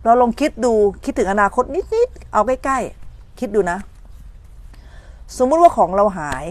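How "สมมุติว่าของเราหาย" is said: ordinary talk, nothing marked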